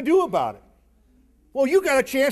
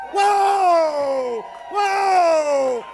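excited whoop; 6 semitones higher, much slower than usual. Real, not acted. Crowd raises hands for vote.

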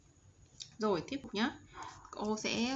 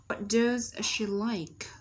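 slow, louder "What does she like?"; slow model question; 5 dB louder, much slower than usual. Shown as a demonstration. Teacher repeating the pattern for students, slow emphatic model.

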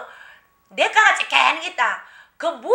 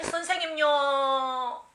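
pleading villager; 8 dB quieter, much slower than usual. Retold or imitated. Villagers beg the new shaman.

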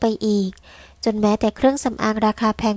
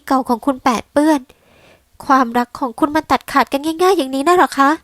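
furious snapping; 4 semitones higher than usual. Acted. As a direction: hurl the words back at him in rage. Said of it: "ตวาดเสียงเกรี้ยว".

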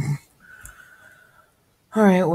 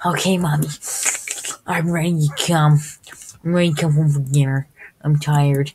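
put-on whiny kid voice; 4 dB louder than usual. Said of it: "when he's, he's like".

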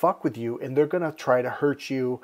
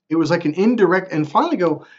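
usual speaking voice

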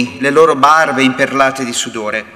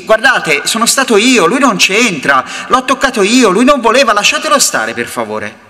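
desperate pleading; 6 semitones higher than usual. Acted. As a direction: beg them to let him go, voice climbing.

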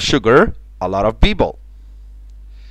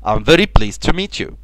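slow, careful formal greeting; slow formal model line; slower than usual. Shown as a demonstration. Teacher models a business greeting slowly and formally. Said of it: "لا، بقول له".

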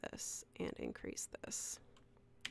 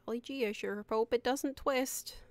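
put-on wholesome 1950s kid; 4 semitones higher than usual. Corny exclamation mid-tutorial.

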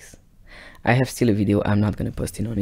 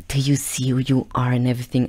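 hushed accusation; 3 semitones higher than usual. Retold or imitated. Girlfriend accusing back.

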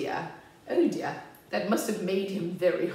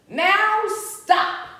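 high, ringing order; commanding halt; 13 semitones higher, 6 dB louder than usual. Acted. Max stops the wild things, commanding halt. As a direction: call a halt, pitched high.

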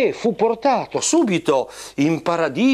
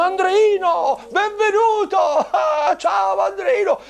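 high squeaky puppet greeting; cheery puppet hello, pitched high; squeaky shrill puppet voice; 10 semitones higher than usual. Acted. Saints greeting newcomer.

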